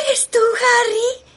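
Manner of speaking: emotional cry. Acted. Widow hears dead husband.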